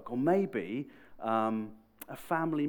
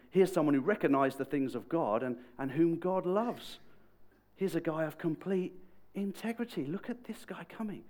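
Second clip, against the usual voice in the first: higher, stretched-out proud praise; admiring; 5 semitones higher, 5 dB louder than usual. Retold or imitated. Jesus praising Nate before those gathered round, admiring. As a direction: show him off to the crowd.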